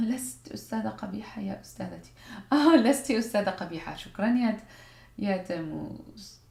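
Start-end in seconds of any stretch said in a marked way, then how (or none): 0.1-4.0 laughing read. Real, not acted. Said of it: "laughing reading chat".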